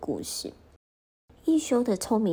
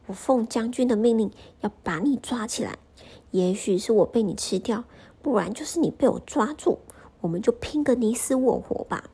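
bold challenge; 3 semitones higher, 4 dB louder than usual. Acted. Ikkyu challenges painted tiger.

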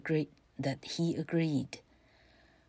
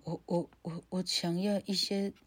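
soft stammering fearful plea; frightened man; 3 dB quieter than usual. Acted. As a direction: stammer it, scared. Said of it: "这个男人说".

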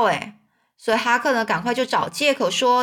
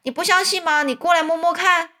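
anxious; 6 semitones higher than usual. A narrator's reading. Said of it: "我着急地回答说".

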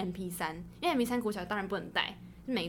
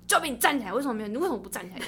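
teacher's scolding shout; 5 dB louder, faster than usual. Retold or imitated. Retelling a male teacher yelling at a pupil, mock shout. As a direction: bark the order like an angry teacher.

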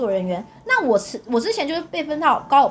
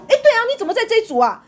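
dazed surprise; 8 semitones higher, 4 dB louder, faster than usual. Retold or imitated. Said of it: "他竟然也是这样愣着说".

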